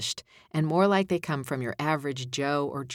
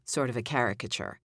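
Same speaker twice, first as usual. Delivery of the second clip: usual speaking voice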